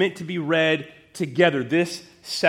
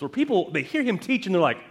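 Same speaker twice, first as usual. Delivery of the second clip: ordinary talk, nothing marked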